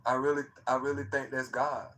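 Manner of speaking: soft, low-voiced telling; talking low. Real, not acted. Telling the chat about the night he recorded it, talking low and soft. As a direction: keep it hushed, almost to yourself. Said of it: "I don't know why I'm talking so, so low".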